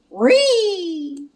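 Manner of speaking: high cartoon dog yelp; Scooby yelp. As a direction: let out a startled dog cry. Scooby yelps jumping off lift.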